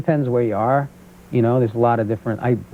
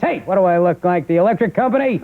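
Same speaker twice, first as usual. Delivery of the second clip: higher, mock-indignant dad grumble; imitating his father; 4 semitones higher than usual. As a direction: complain like a penny-pinching dad. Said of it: "started acting like him".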